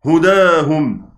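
هداهم said very slowly; drawn-out demo word. Shown as a demonstration. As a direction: stretch هداهم as a model. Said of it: "هداهم ده في وسط الكلمة".

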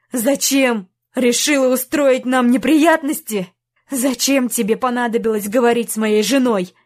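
demanding answers, gripping her shoulders; angry interrogation. Acted. Jack interrogates Mia furiously. (гневный допрос)

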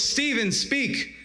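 very high, drawn-out decree; commanding faith healer. Retold or imitated. Healer to stuttering man, mock grand command. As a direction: stretch the command like a miracle worker.

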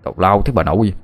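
mild annoyed curse at the wardrobe; cursing. Acted. Minh curses at the wardrobe, mildly annoyed. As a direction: swear at the knocking cupboard. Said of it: "miệng lại chửi".

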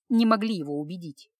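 usual speaking voice

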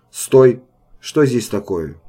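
very loud stop, then slow demand; officer stopping the soldiers in the school; commanding shout. Acted. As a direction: halt them with one sharp shout.

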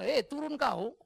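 bentakan. Retold or imitated. Menirukan bentakan kepada maling.

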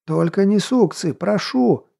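pleading. Acted. Prisoner begs.

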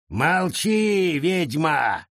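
high, harsh mock shout; angry yell. A narrator's reading. Ansel silences the accused witch, an acted angry yell. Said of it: "заорал в ответ Ансель".

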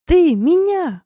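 high, loud indignant protest; indignant outburst. Acted. Husband Dima protests his wife's complaint, loud and indignant. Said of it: "возмутился Дима".

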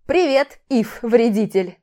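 громкий, медленный мужской голос, приветливо; окликни приятеля по-свойски; бодрый парень. Acted. Рейвен окликает героиню. (грубоватый дружеский оклик)

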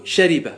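شرب said shariba, i after the r; correct vowelling. Shown as a demonstration. Teacher telling students what to say, شرب properly voiced shariba. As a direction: model شرب as sha-ri-ba. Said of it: "تقول شرب".

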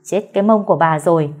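a mother-in-law yelling for her daughter-in-law after slipping; screaming. Acted. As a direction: shriek and curse after a fall. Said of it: "mẹ chồng tôi bên ngoài la hét".

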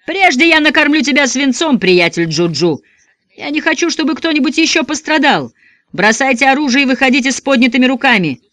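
high, firm ultimatum; commanding lawman. Acted. Sheriff orders the gang to drop weapons, high firm. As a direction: order them out hands up. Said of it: "sheriff demands surrender".

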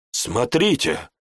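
slow drawn-out call. A narrator's reading. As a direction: say it slowly, pointing away. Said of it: "медленно произнесла Шантра".

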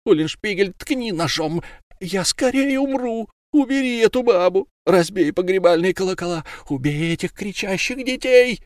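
captured werewolf pleading with Ulenspiegel. Acted. Fisherman begging in agony.

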